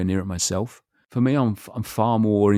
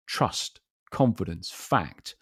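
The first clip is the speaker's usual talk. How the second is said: each word falling, calm and certain; downward inflection; 4 dB quieter, much slower than usual. Shown as a demonstration. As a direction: state it, pitch falling at the end of each word. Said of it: "that sort of downward inflection is more of a statement".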